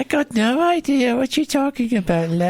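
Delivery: a hammed-up fake British accent; bad British accent. Playing the hammy Brit for the cast, in a bad British accent. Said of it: "the bad British accent".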